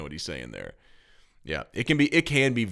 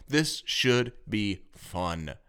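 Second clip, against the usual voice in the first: self-reassurance; much slower than usual. Retold or imitated. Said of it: "I have to tell myself that".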